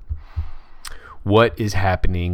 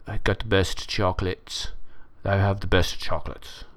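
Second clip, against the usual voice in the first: a lightly voiced, bad Donald Trump boast; half-hearted Trump brag about chocolates; Trump impression; 4 dB quieter than usual. Mocking the Trump headline photo, a bad Trump impression. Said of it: "I don't do a very good Trump impression".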